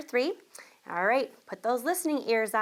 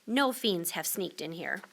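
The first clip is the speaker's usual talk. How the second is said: soothing mother; 4 semitones lower, 4 dB quieter than usual. Acted. Mama reassures.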